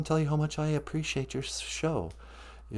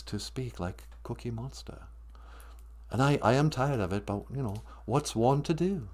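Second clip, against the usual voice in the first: refined real voice; 8 dB quieter than usual. Acted. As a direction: drop the monster act and speak like a weary aristocrat. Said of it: "just be real".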